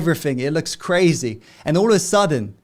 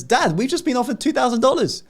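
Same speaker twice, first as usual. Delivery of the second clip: put-on excited little boy; 10 semitones higher, 4 dB louder, faster than usual. Boy excitedly tells dad.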